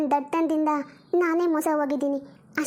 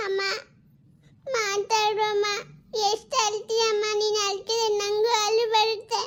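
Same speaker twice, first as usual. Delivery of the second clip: a hint of a worried young daughter, a bit higher; lightly voiced little girl; 5 semitones higher, slower than usual. Daughter begs her mother not to give her away, lightly childlike. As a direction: play the small girl pleading with her mum.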